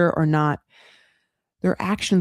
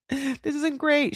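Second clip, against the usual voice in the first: imitated unhappiness; 9 semitones higher, 3 dB quieter, slower than usual. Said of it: "she's not happy".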